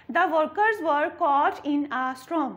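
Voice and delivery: slow, clear sentence for repeating, workers with rounded W; slow model reading. Shown as a demonstration. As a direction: say it slowly so they can repeat. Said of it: "repeat कीजिएगा". (धीमा, दोहराने लायक उच्चारण)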